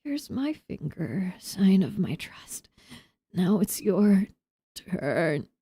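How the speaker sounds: stranger offering a severed finger, hushed; freaky voice. Acted. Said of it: "I like doing freaky voices".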